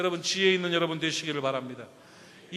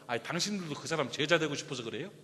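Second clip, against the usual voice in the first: tossed-off jab; 3 semitones lower, 4 dB quieter than usual. Retold or imitated. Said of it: "툭 던지는 말이".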